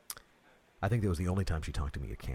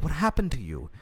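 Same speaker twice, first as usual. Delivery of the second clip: solemn pastor, raised and high; 9 semitones higher, 4 dB louder than usual. Retold or imitated. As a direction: play the worried pastor. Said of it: "he said".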